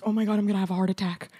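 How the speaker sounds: quick mock-panicked chatter; lightly acted anxious babble, fast; imitating freaking out. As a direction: rush it like a friend freaking out. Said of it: "Gabby is freaking out".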